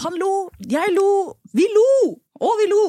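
building giggly excitement; laughing. Real, not acted.

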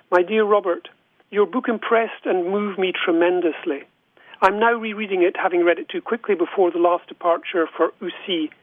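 measured, deliberate reading aloud with pauses between phrases; letter reading. Acted. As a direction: read the letter out unhurriedly, phrase by phrase.

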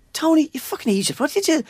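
retelling a colleague shouting at Tony in the office; mock outrage. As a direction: pitch up and bawl out a coworker. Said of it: "And he goes like".

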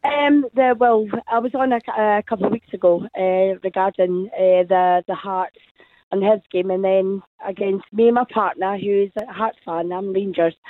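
raspy, worn-out hoarse voice. Real, not acted. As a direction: speak through a lost, hoarse voice. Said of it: "excuse my voice, I lost it".

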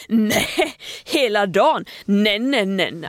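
imitated overbearing caretaker, dismissive; bullying scorn. Caretaker refusing a whole-day water shutoff, imitated bullying scorn. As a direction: mimic a scornful, domineering refusal. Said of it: "Alltså lite så här översittar".

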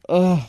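short loud groan of disgust; a quick grossed-out ugh. Real, not acted. Recoiling from the on-screen kiss, loud disgusted groan.

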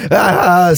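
mock evil laugh. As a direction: act out an ugly villain's guffaw. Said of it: "ondskefullt garv". (härmat ondskefullt garv)

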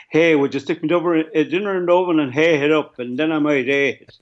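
lightly put-on Athy accent; flat Athy accent. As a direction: imitate a local from Athy, flat as a pancake. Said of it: "the accent is as flat as a pancake".

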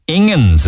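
S=onions; mispronounced onions. Shown as a demonstration. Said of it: "people who want Ingens".

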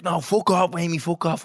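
half-serious brush-off; retold argument. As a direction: imitate a mate snapping in a row. Acting out mates' argument.

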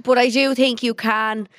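words strained while stretching; stretching groan. Real, not acted. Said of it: "Sorry, I'm just stretching here".

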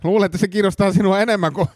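high-pitched, insistent blackmailer; epäilty, uhkaava. Acted. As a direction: corner the inspector with a threat. Suspect threatens the inspector. (uhkaava, kiihtynyt epäilty)

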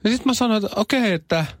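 high mock-agreeable "okei"; high retold reply. Retells his answer to wife. (korkea leikillinen myöntely)

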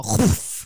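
low imitated shuff of something ripping; imitated tearing sound. She imitates the scarf tearing something off the wall. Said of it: "bara hör någonting bara".

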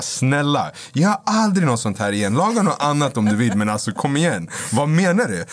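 high, rising retold exasperation; exasperated pleading. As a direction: act out pleading that builds into annoyance. Retold quarrel with girlfriend over cooking.

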